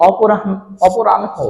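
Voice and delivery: slow, clear অপরাহ্ন, "opo-ran-ho"; n-before-h pronunciation. Shown as a demonstration. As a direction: say অপরাহ্ন slowly as "oporan-ho". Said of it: "আগে উচ্চারণ হয়ে যাবে".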